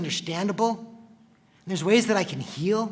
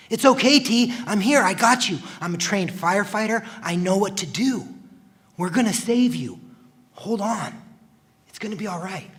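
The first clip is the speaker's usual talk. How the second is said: urgent reassurance; 3 semitones higher, 4 dB louder than usual. Acted. Comforting trapped injured brother.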